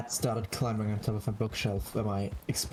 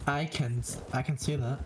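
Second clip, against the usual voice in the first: distant voice with room echo; echo chamber; 3 semitones higher than usual. Real, not acted. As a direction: sounds like talking from a tiled bathroom. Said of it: "Why do you sound like you're in the distance?".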